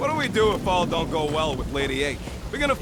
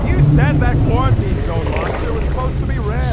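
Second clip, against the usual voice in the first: angry shout; 2 semitones higher, 9 dB louder than usual. Acted. Heated argument, shouting.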